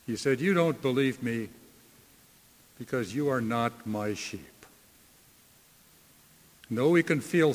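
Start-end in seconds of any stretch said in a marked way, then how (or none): 0.4-4.7 softer, understated sorrow; a rebuke given sadly, sinking to a quiet end; gentle sadness. Acted. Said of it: "I think Jesus said it sadly".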